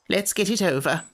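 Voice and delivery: high, grumpy creature voice; a cross little sand-fairy; Samiad voice. Acted. Samiad character voice.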